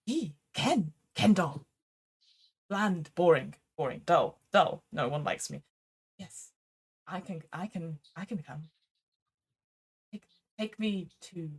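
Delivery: very soft, halting doll voice; hushed, downcast little figure; dejected Ken doll. Acted. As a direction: murmur it haltingly, as if nobody likes you. Game master voices lonely Ken doll.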